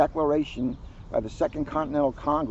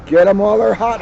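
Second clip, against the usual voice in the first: higher, louder holler; Dad hollering to the backyard crowd; 8 semitones higher, 12 dB louder than usual. Acted. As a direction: call it out over the grill like Dad. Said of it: "hollered Dad".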